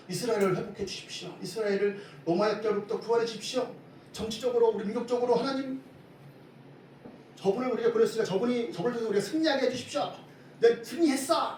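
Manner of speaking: acted urgent appeal, pitch climbing steadily; crowd's crying out. Preacher voicing Israel's crowd appealing for political rescue, rising mock cry. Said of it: "막 이렇게 외치는 장면이".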